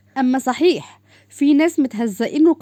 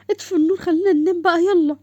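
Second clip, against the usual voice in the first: bossy command; 8 semitones higher, 4 dB louder than usual. Acted. Bossy bedtime demand.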